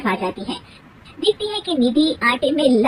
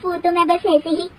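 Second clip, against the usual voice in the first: flustered bahu; 6 semitones higher than usual. Acted. Bahu denies to mother-in-law.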